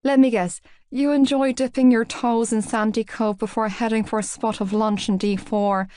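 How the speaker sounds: lightly mocking Southside Dublin poshness; a put-on upper-crust Dublin voice, playful; forced posh Dublin accent. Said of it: "with a snicker and another forced accent".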